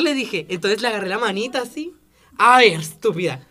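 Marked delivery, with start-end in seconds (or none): 2.4-3.5 contemptuous. Retold or imitated. Confronting the girl at the door.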